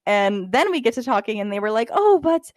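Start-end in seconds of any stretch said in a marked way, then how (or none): 1.9-2.5 high, slow, put-on German accent; a bad German fan's accent, drawn out; hammed-up German accent; German accent attempt. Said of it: "I can't do a German accent".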